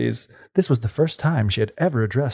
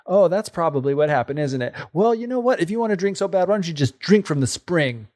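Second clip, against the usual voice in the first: a hint of an arrogant brat, higher; arrogantly; 4 semitones higher than usual. Rude sister mocking the fairy, lightly arrogant. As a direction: sneer at the princess, lightly. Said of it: "said very arrogantly".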